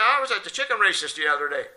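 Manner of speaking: put-on eager little kid. Kid answers priest in joke.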